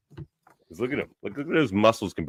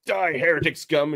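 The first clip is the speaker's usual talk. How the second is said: hammed-up villain yell, higher; mock battle cry; 9 semitones higher, 3 dB louder than usual. Cultist charging Dashini, mock battle cry. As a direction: yell it like a cartoon zealot.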